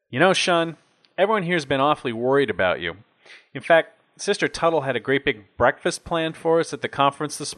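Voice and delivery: a lightly voiced friend, heartfelt and earnest; sincere young missionary. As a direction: tell him plainly he is loved. Narrator voices Elder Fearing.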